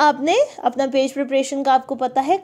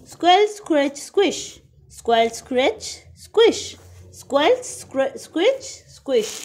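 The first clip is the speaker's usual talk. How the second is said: sound words read aloud; 3 semitones higher than usual. Shown as a demonstration. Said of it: "say the following words loud".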